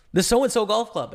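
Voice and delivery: high, loud receptionist greeting; receptionist answering. Pretend. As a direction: answer like the golf club front desk. Plays the club answering.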